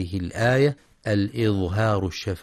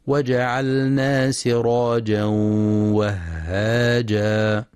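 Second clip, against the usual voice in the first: slow chanted tajweed; Quran recitation; much slower than usual. Shown as a demonstration. Teacher recites the verse for students, slow melodic chant. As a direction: draw out وهاجا with a nasal hum.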